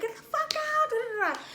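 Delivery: very high retold squawk; mock-angry dismissal. Drunk girlfriend kicking boyfriend out, high mock-angry squawk. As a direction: order him out, trailing into babble. Ordering him out, acted.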